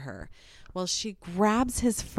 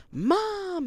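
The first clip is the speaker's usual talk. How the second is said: put-on high, drawn-out kid's call; child calling Mom; 12 semitones higher than usual. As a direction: imitate a young boy tattling to his mother. Younger son calls out to mom.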